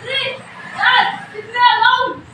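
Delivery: high, upset plea to be left alone; upset rebuff. Acted. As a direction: push a worried parent away. Upset child rebuffs concerned parent.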